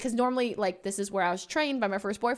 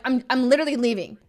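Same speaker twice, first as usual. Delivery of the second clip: retold anger; 3 semitones higher, 6 dB louder, faster than usual. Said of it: "I got so mad at him".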